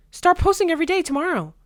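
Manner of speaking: high, loud mock auntie order; mock firm auntie. Teen imitating auntie's order, high and loud.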